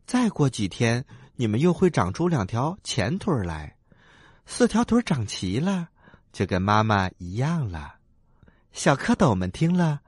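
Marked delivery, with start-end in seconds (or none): 0.1-7.9 lightly voiced gentle mother frog; tender, reassuring motherly voice; patient mother frog.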